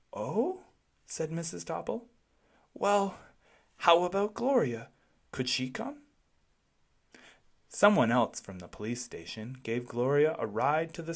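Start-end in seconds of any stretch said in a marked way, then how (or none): 0.1-6.0 Mrs Topple. A narrator's reading.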